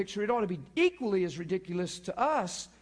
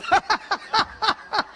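real laughing fit, high and loud; 12 semitones higher, 8 dB louder than usual. Real, not acted. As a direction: burst out in high breathy laughter. Laughing at a funny memory.

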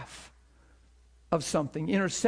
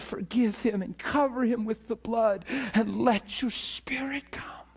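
raised, pleading prayer voice; imitated tearful prayer; 5 semitones higher than usual. Couple praying by the road for his soul, acted pleading. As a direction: plead with God as if crying for a soul. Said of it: "were crying for my soul".

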